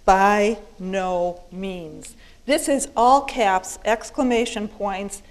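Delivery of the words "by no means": BY NO MEANS, each word slow and weighty; very emphatic. Acted. Paul answering whether we may keep sinning, very emphatic. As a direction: drag out every word for total emphasis. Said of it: "Paul very emphatically says".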